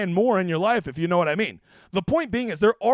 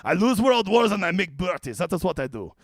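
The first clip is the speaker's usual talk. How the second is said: mock French accent. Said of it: "I am going to do the French accent".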